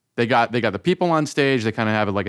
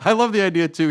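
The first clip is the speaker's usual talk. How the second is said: high-pitched, talking through real laughter; amused, laugh breaking into the words; 10 semitones higher than usual. Real, not acted. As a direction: explain it while still cracking up. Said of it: "I'm laughing 'cause".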